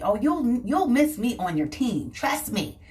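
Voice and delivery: passive aggressive jab. Retold or imitated. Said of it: "That's the passive aggressive in me".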